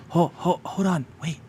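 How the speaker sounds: a timid creature stammering to stop you; nervous little kobold. Acted. DM voices kobold Meepo.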